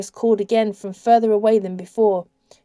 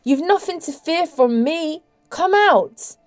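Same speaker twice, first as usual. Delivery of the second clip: high, coaxing, pleasant tone; lifted, persuasive sweetness; 8 semitones higher than usual. A narrator's reading. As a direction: reassure to lure someone out. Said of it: "His voice sounded so pleasant now".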